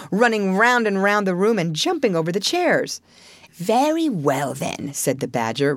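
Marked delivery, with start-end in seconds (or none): 3.6-4.9 slow, falling wrap-up; understated, drawn-out acceptance; dry. Acted. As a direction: bring things back to order, mildly dry. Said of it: "resuming his usual dry manner".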